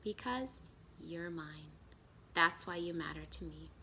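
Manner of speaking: slowly, softly, each word weighed; a maker gently telling his child he belongs; slow and tender. Acted. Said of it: "spoke very slowly".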